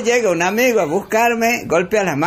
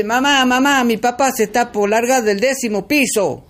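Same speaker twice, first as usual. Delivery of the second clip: voz de niño aguda y apurada; niño alarmado; 6 semitones higher than usual. Acted. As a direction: grita "mamá" como un chico asustado. Niño llega corriendo alarmado. (niño agitado avisando a su madre)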